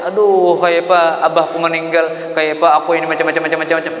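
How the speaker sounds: preacher imitates an impatient mourner, hammed-up wail; mock wailing mourner. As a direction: ham up someone falling apart at bad news. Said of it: "langsung mulutnya".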